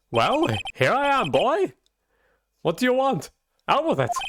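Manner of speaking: an impatient eccentric lawyer, lightly voiced; Mad Hatter voice. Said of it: "Mad Hatter kind of thing".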